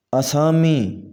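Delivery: اسامی opening on short a: a-saa-mi; correct pronunciation. Shown as a demonstration. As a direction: keep the first vowel of اسامی short. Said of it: "صحیح تلفظ ہے". (اسامی کا صحیح تلفظ، مد کے بغیر)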